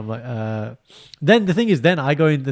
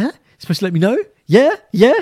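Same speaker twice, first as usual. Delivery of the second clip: mock pushy follow-up; 8 semitones higher, 8 dB louder than usual. Chasing up a late reply.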